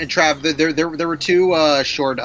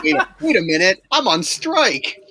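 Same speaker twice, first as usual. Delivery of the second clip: mock dramatic protest; 5 semitones higher, slower than usual.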